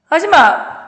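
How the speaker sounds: high, loud shout at the teacher; angry yell. Retold or imitated. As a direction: yell out in a flare of temper. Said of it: "화음 막 지른 거예요". (열받아서 내지르는 고함)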